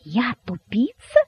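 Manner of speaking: slow question climbing high; drawn-out incredulous question; disbelieving. A narrator's reading. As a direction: repeat it slowly as if you misheard. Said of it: "не веря своим ушам".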